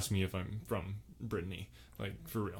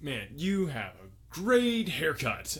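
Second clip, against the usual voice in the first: complimenting; much slower than usual. Shown as a demonstration. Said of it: "So if I'm talking".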